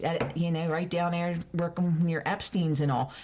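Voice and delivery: homely Baltimore accent for reminiscing. Shown as a demonstration. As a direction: slip into a local Baltimore accent. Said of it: "I can pick it up like that".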